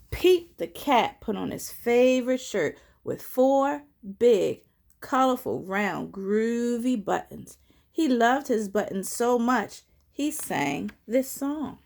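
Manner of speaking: slow, animated storytime narration; picture-book read-aloud, key words punched; children's story reading. A narrator's reading. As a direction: read it out clearly for little listeners.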